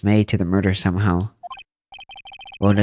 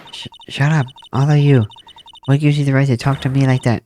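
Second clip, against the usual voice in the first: higher-pitched, protesting witness voice; indignant witness; 4 semitones higher than usual. Acted. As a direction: protest like a cornered witness, ending in a wail. Plays rattled witness turning on lawyer.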